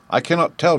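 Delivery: put-on little girl voice. A narrator's reading. Dorothy answers scarecrow.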